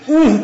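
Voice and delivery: brief "oonh" flagging a mistake; imitated correcting grunt. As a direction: mimic the teacher's grunt of disapproval. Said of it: "صرف اس طرح کی ایک آواز نکالتے تھے". (استاد کے ٹوکنے کی آواز کی نقل)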